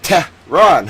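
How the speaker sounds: Tehran split pointedly into "TEH... rahn"; over-pronounce "Tehran" to needle the critic; emphatic two-part "TEH, rahn"; mock mispronunciation. Shown as a demonstration. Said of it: "not my pronunciation of the word".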